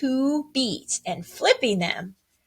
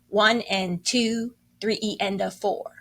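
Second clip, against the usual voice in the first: counting aloud. Shown as a demonstration. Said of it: "To count it, you would say".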